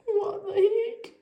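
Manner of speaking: slow, high, loud what the heck; disbelieving. Real, not acted. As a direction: drag it out in disbelief. Disbelief at result.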